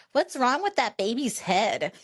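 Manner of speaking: lightly voiced kid asking out loud. Kid to his mom at a restaurant, mock loud child. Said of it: "says to his mom loudly".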